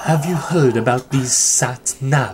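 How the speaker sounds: slow Welsh sitcom uncle; drawn-out Welsh character voice; Uncle Bryn. Retold or imitated. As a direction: imitate a Welsh uncle, taking it slowly. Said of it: "do Uncle Bryn when he used to go".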